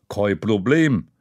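slow, easy-going "no problem"; laid-back, confident dad; casual dad. Acted. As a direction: toss it off like it's nothing. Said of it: "Lässig winkt Papa".

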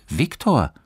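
taken aback, pitch lifting; puzzled. A narrator's reading. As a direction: say the name in wonder. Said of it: "sagte Johannes verwundert".

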